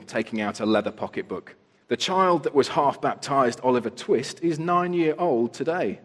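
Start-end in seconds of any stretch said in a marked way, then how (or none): 1.9-6.0 loud, high, self-important official; pompous beadle. A narrator's reading. Beadle Bumble speaks pompously.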